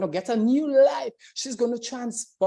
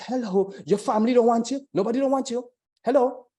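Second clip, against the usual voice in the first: scolding; 3 dB louder, faster than usual. Acted. Foster carers scolding Paula.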